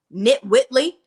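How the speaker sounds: hushed stage whisper. Real, not acted. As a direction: lean in and whisper it. Aside to viewer.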